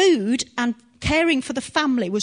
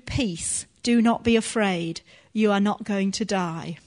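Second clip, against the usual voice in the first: gentle reassurance; 3 semitones lower than usual. Shown as a demonstration. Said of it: "that's not how the Lord treated him in his fear".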